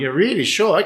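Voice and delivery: mock haughty, doubtful tone. Retelling doubting a man's claim about friends in Limassol, the speaker quotes themself mock-arrogant. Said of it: "really arrogantly".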